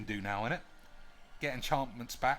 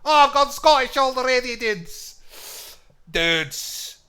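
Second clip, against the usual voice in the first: much louder, high, laughing at himself; loud self-mocking outburst; 11 semitones higher, 13 dB louder, slower than usual. Streamer loudly mocking his own failed accent. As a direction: blurt it out amused at the failure.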